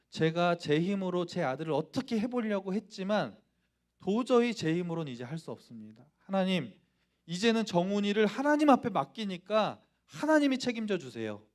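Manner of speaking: imitating mother's earnest plea to God; surrendering prayer. Mother entrusts her son to God, pleading in surrender. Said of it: "항복하는 기도를 하시고".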